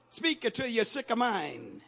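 ordinary delivery

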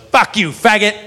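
put-on drunk woman insult. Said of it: "the worst thing ever".

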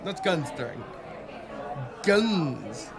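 put-on correcting the word in a German accent; firm German-accented correction. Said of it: "I don't know why I decided on this accent".

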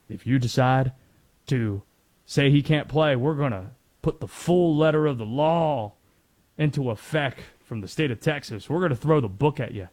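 put-on Southern accent for an attorney general; lightly mock a Texas official with a Southern accent; a touch of Southern accent, issuing a threat. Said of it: "Don't know why I did a Southern accent".

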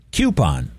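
"Coupon" starting with a "kyoo" sound; coupon as KYOO-pon. Retold or imitated. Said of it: "which is how I grew up saying it".

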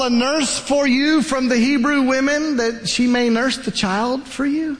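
put-on teenage sister interrupting the princess, nervous and rushed; timid teenage girl. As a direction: babble nervously to royalty. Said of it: "Miriam walks up to the princess".

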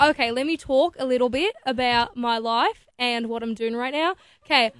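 attempted Aussie accent; Australian accent. Shown as a demonstration. Pop star showing the host her Australian accent. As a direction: introduce yourself in a put-on Australian accent. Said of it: "how well do you do an Aussie accent".

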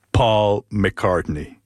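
Le nom étiré très lentement, avec révérence; lent, émerveillé. Real, not acted. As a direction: savourer chaque syllabe du nom, ébahi. Nom prononcé avec émerveillement. (il annonce sa rencontre, lentement et avec révérence)

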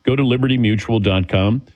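smooth live radio ad read. Acted. Host reads the insurance ad on air, smooth ad voice. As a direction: sell it to the listeners, steady and upbeat.

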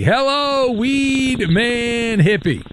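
drawn-out announcer greeting. Acted. Host hailing the caller on air with a high, slow announcer greeting. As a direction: hold every syllable like a showman.

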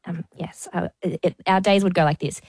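normal talking voice

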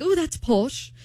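lightly mocked British remark; amateur British accent; bad British accent. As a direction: imitate a Brit calling something posh. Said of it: "You have a terrible British accent".

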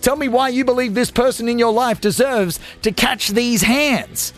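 usual speaking voice

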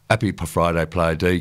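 light Essex accent, Player "deɪ"; a hint of Essex, "Player D" as "Player day". Shown as a demonstration. DJ reading a listener's text aloud, light Essex accent. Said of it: "I just sort of done a sort of Essex accent".

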